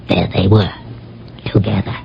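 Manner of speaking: soft whisper trailing away; whispered reveal. Acted. Revealing the lovers found together.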